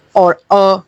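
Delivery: a short open "اَ" sounded out on its own; letter sound demo. Shown as a demonstration. Teacher demonstrates the vowel sound for pupils. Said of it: "اے کی آواز ہوتی ہے اے".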